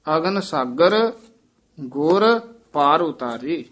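a short break right after ਗੁਰ, then ਪਾਰ ਉਤਾਰੇ; pause after ਗੁਰ. Shown as a demonstration. Teacher showing where to pause after ਗੁਰ. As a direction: hold a beat on ਗੁਰ before going on. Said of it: "ਇੱਥੇ ਯਮਕ ਲਾ ਦੇਣੀ ਹੈ".

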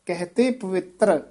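ਕਹਤੇ ਪਵਿੱਤਰ as one phrase, falling to a short stop; brief halt after ਪਵਿੱਤਰ. Shown as a demonstration. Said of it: "ਇੱਥੇ ਠਮਕ ਹੈ".

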